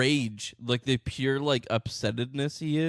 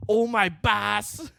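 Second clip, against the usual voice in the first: higher, very slow indignant parody; mock angry short man; 5 semitones higher, much slower than usual. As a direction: drag out the outrage like the ranting man. Joining the mock rant.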